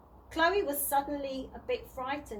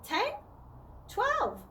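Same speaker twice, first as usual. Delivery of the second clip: said loudly; 10 semitones higher than usual. A narrator's reading. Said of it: "said Chloe loudly".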